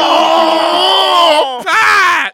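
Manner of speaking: loud shocked laugh; laughing shout. Real, not acted. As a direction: yell his name in disbelief.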